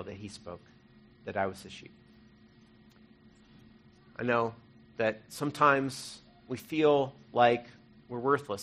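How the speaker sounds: normal talking voice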